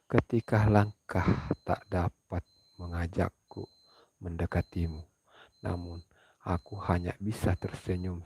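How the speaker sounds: unhurried heartfelt verse; poem recital. Acted. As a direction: recite it tenderly to the audience. Reads a pantun poem.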